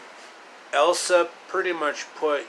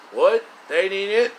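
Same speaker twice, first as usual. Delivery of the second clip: surprised shout; 6 semitones higher, 8 dB louder than usual. Acted.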